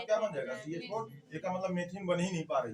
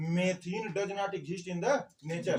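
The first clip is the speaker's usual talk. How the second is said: slow dictation; much slower than usual. Shown as a demonstration. Teacher stresses a key fact.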